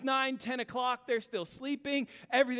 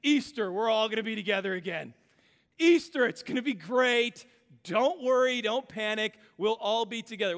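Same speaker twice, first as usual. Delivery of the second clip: mock upbeat reassurance; 5 dB louder than usual. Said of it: "I was that guy standing up here saying".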